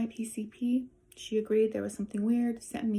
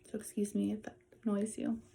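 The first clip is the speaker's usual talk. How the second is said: breathless after neck surgery; out of breath, airy and strained; 4 dB quieter than usual. Real, not acted. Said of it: "I'm sorry if I'm out of breath".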